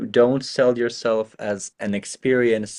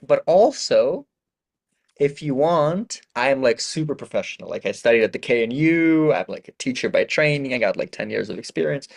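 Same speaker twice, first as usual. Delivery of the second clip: mock professional pitch. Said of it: "the second part would be something like".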